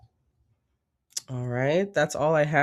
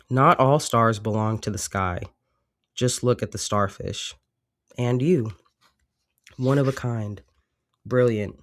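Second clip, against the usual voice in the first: reading aloud. Acted. Reads the oracle card text.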